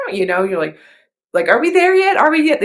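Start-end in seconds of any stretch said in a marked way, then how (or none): 1.5-2.6 put-on high, loud kid whining in the back seat; impatient little kid begging, much higher and louder; whiny inner child. Child nagging on a long ride, high whiny voice. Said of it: "the little, the inner child".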